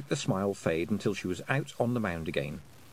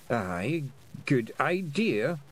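slow, drawn-out agreement; slowly; 4 semitones higher, much slower than usual. Acted. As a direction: let the idea dawn slowly. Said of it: "he said slowly".

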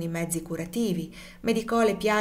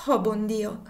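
groaning; slower than usual. Acted. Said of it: "esclamò Tom gemendo".

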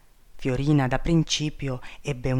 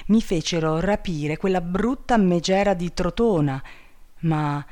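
higher, indignant protest; outraged king; 4 semitones higher than usual. Acted. Wronged king protests his innocence to princess, outraged. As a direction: denounce the liars with heat.

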